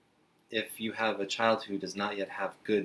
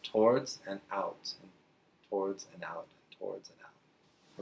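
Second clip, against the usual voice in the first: paced breathing rhythm. Shown as a demonstration. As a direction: breathe along with the words. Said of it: "It just moves".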